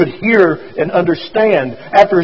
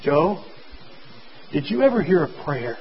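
softer and lower, each word clear; low, distinct voice; 11 dB quieter than usual. A narrator's reading. Doctor speaks into dying Joe's ear, low and distinct. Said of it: "in a low, distinct voice".

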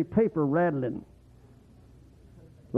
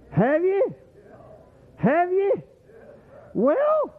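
pressing question; 12 semitones higher, much slower than usual. Real, not acted. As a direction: push the crowd for an answer. Preacher pressing congregation.

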